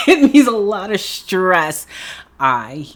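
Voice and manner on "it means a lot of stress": louder and higher, stress on means; emphatic repeat. Real, not acted. Repeating to the viewers that it means stress, louder. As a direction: hit it again, bigger.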